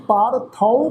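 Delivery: ਪਾਰਥੋ ending in an au glide; au vowel on th. Shown as a demonstration. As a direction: say the last syllable of ਪਾਰਥੋ as thau. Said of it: "ਥੱਥੇ ਅੱਖਰ ਦੇ ਉੱਪਰ ਕਨੌੜੇ ਦੀ ਮਾਤਰਾ".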